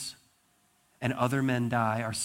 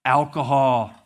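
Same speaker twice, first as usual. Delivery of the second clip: calling out; 9 dB louder, slower than usual. Retold or imitated. King calls for the alcohol.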